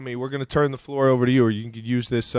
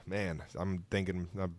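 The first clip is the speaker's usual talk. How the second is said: choking up; 2 semitones lower, 8 dB quieter than usual. Real, not acted. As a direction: voice catching with emotion. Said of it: "I'm choking up right now".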